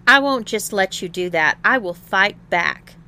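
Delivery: loud, forceful refusal; defiant. A narrator's reading. Tom resists his tormentor aloud.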